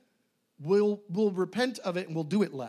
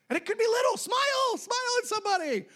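bright encouragement. Acted. Animated tip.

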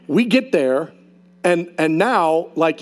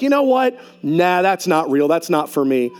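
dismissive. Retold or imitated. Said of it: "we're just like".

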